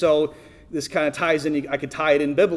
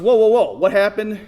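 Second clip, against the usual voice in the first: higher, louder, alarmed go-kart owner; mock alarmed owner; 6 semitones higher, 7 dB louder than usual. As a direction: hurry in asking what happened. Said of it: "the owner comes out and says".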